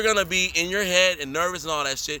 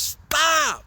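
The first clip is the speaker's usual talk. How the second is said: shouted stop; 9 semitones higher, 3 dB louder than usual. Retold or imitated. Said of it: "And he goes".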